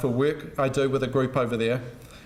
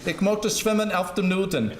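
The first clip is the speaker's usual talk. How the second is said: put-on German accent; 3 semitones higher than usual. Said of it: "put on a foreign accent, it's particularly the German accent".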